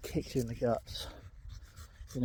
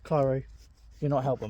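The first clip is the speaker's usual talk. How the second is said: louder mock telling-off, "you're not helping" with the stress on "not"; scolding the dog; 5 dB louder than usual. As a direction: snap at the dog like an exasperated owner. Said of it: "your brain is telling you".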